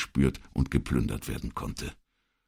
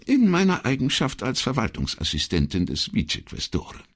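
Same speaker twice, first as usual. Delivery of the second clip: higher, mock-modest secretary voice; exaggerated modesty; 10 semitones higher than usual. A narrator's reading. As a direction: state the title with overdone humility. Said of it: "mit übertriebener Bescheidenheit".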